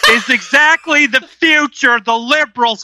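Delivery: slow, drawn-out Southern rant; hammed-up Southern grievance; Southern accent. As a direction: declaim it slowly in a put-on Southern twang. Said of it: "please read that in a Southern accent".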